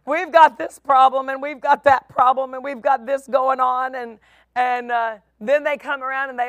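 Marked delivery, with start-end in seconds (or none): 0.0-4.0 Jerry Clower impression. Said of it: "my best Jerry Clower impression".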